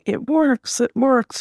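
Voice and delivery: put-on high, delighted child's cry of success; mild imitation of a happy child shouting; joyful child cheer. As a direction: cheer it like a thrilled little girl. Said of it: "doing somersaults with joy".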